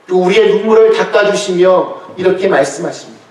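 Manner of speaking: usual speaking voice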